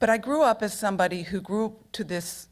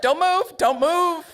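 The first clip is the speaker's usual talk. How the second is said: high, louder urgent command; urgent shout; 10 semitones higher, 6 dB louder, slower than usual. Retold or imitated. Photographer shouting at nude crowd as boat passes, high urgent yell. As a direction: yell it at the crowd so nobody moves. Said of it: "and he's like".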